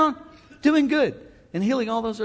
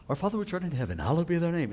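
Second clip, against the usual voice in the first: lightly mocked stage-preacher solemnity; pompous preacher voice; 7 dB quieter, faster than usual. Preacher mocking preachers who pray in a stage voice. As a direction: send up the churchy pulpit voice. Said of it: "they're talking like this".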